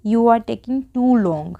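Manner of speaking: very slow, word by word; slow model sentence. Shown as a demonstration. Teacher modelling an English sentence for Hindi learners, very slow. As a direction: say it slowly so learners can follow. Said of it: "तो क्या बोलेंगे हम".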